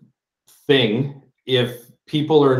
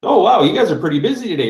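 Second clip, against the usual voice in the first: quick, chatty opener; breezy cheerful remark to the cashier; friendly small talk; 5 semitones higher, 3 dB louder, faster than usual. Shown as a demonstration. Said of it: "try and strike up just a random conversation".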